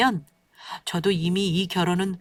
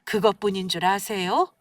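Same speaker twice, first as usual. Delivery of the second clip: plain reading voice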